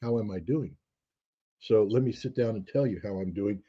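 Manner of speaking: measured, serious answer to small talk; earnest Russian reply. Retold or imitated. Russian answering a passing greeting, serious and deliberate. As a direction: take the casual question in full earnest. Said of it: "You asked me a serious question".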